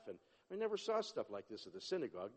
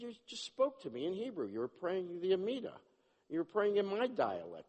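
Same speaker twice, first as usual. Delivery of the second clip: excited insistence; 6 semitones higher, 4 dB louder than usual. Retold or imitated. Insisting to the praying man.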